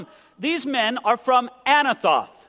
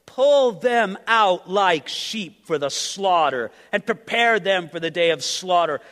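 solemn, measured Bible reading; scripture reading. Acted. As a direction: read the verses like a preacher at the pulpit. Reads scripture aloud.

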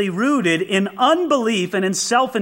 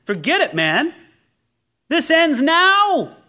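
blunt mock command; 8 semitones higher than usual. Blunt Joab, retold.

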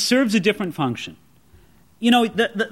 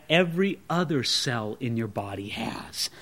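hushed whisper on "every other cell in your body has"; 13 semitones lower, 11 dB quieter than usual. Acted. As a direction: lean in and whisper it like a secret. Whispered secret about shared DNA.

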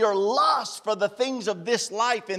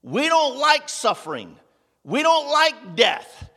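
louder and higher, building; louder, higher preaching build; fervent preaching; 4 semitones higher, 5 dB louder than usual. Acted. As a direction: drive the point home.

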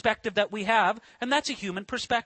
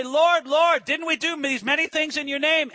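pleading crowd; 5 semitones higher than usual. Acted. Pleading voices at judgment day.

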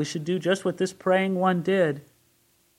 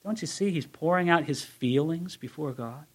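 ordinary delivery

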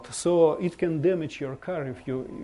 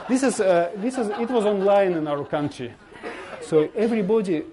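laughing; 6 semitones higher, 4 dB louder than usual. Real, not acted. Joke about 147 percent turnout.

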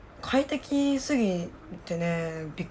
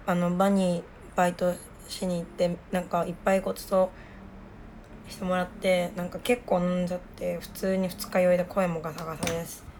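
rough, hoarse hungover voice. Real, not acted. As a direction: speak hoarsely after a night of drinking.

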